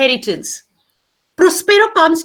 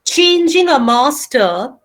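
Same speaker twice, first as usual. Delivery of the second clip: dictation pace. Shown as a demonstration. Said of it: "start writing".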